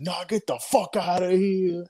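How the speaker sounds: slow, scornful brush-off; dismissive retort. Retold or imitated. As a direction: imitate the doubter waving it off. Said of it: "I've been like".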